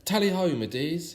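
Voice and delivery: high, loud cheerful call to the reindeer; cheery call. Acted. Father Christmas cheering his reindeer into flight, high and loud. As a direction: cheer them off into the sky. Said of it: "he cheered".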